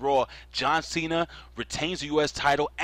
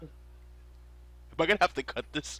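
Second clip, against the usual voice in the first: whispered aside; 6 semitones higher, 4 dB quieter, slower than usual. Real, not acted. Host asks aside about editing.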